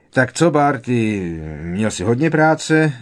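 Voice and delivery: a cheery, hail-fellow greeting; hearty. A narrator's reading. Pitloun asks Barty about his work, heartily. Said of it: "Zeptal se Pitloun bodře".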